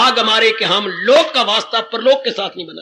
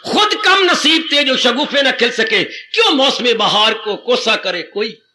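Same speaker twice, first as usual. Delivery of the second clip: couplet recital. Shown as a demonstration. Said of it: "couplet recited again in full".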